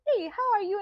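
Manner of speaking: high, loud, bubbly hello; excited greeting. Retold or imitated. Retelling meeting an old bride, high loud excited hello. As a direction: greet her like a long-lost friend. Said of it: "and I was like".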